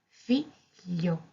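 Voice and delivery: "figlio" said slowly as fi-llio; slow gl split. Shown as a demonstration. Teacher breaking the word down for learners, slow. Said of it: "separar las primeras tres".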